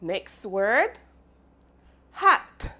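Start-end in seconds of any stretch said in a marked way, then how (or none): 2.1-2.7 "hat" sung out much higher and louder, each sound stretched; exaggerated sounding out. Shown as a demonstration. Teacher modelling "hat" for the class, exaggerated and loud. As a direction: model "hat" big and bright for kids to copy. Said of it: "Sound it out".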